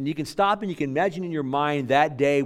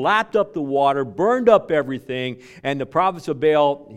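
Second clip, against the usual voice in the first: louder, driving retelling; fervent preaching; 4 semitones higher, 7 dB louder than usual. Real, not acted. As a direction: thunder out the slaughter. Dramatic retelling of Carmel.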